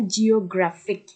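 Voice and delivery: জিওগ্রাফিক slowly, weight on "GRAPH"; জিওগ্রাফিক split up, next-to-last syllable stressed; stress second from end. Shown as a demonstration. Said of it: "গ্রাফের উপর একটা stress".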